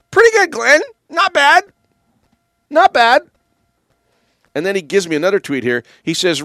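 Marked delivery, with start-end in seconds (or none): 0.1-3.2 amused praise. Real, not acted. Host praises tweet after impersonation.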